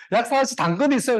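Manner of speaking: lightly acted rabbit calling out its question; persistent rabbit. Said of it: "다음에 또".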